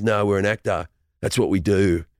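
lightly put-on low Australian actor. An actor telling a story about a colleague, low mock-actor voice. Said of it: "there's an Australian actor voice".

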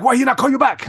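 high, indignant mock Chinese accent; Lou. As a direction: demand it in a put-on Chinese accent. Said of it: "he has the thickest Chinese accent".

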